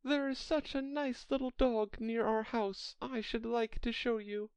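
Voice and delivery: high-pitched, eager Alice chatter. A narrator's reading. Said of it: "so Alice went on eagerly".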